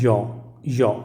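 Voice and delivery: यौ as "yaw", said in isolation; sound demo. Shown as a demonstration. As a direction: model यौ as a glide into an open "aw". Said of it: "उसको sound होता है".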